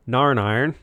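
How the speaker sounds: thick Northern Irish vowels; Northern Irish accent. Retold or imitated. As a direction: say it the Belfast way. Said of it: "the most common one is Narn Iron".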